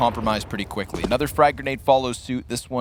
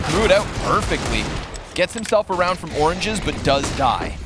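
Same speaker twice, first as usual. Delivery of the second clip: live play-by-play; 6 semitones higher than usual. Real, not acted.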